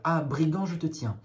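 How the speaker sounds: the vegetable seller grabbing Bachir's foot; yelping. Acted. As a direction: pounce and shriek at him. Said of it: "se mit à glapir".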